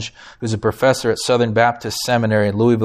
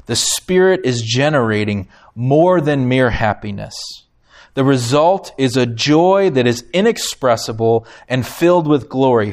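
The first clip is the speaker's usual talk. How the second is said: measured, earnest reading voice; reading a quote aloud. Acted. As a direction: read it like treasured scripture. Reads a book quote aloud.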